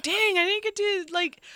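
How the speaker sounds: high mock disappointed cry; imitating Alan. Host imitating Alan disappointed about baseball, high. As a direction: play the let-down co-host. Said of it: "I know Alan is like".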